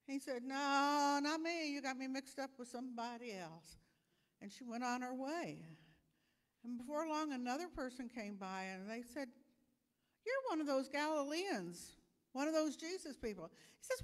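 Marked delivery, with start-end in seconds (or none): 0.4-3.8 loud, high burst of no, not me, then settling; flustered denial. Acted. Peter denies knowing Jesus, loud and flustered. Peter denying to servant girl. 10.3-13.5 higher, louder accusing voice, quick at the end; accusing stranger. Acted. Stranger accuses Peter, high and louder.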